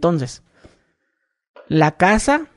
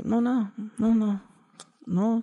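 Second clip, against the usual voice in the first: sulky denial; 4 semitones higher, 8 dB quieter, slower than usual. Retold or imitated. Sulky boyfriend voiced.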